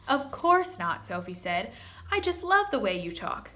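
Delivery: put-on little girl voice. Sophie reassuring.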